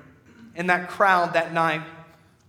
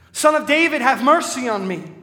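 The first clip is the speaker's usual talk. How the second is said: desperate plea, pitched higher and louder; crying out; 7 semitones higher, 7 dB louder than usual. Acted. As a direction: call out to Jesus over the crowd. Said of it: "So I cried out".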